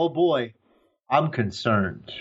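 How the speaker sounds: put-on slow, even concern, no stress on boy; plain oh boy, slowly; favorite take. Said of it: "My favorite".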